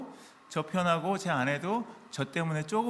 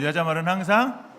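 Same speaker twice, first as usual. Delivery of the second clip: louder, rising repeat of 여자 말은 항상; a louder second call, waiting for the answer; calling it out again; 2 semitones higher, 6 dB louder than usual. Shown as a demonstration. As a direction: push 여자 말은 항상 out to the congregation. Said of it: "다시 한번".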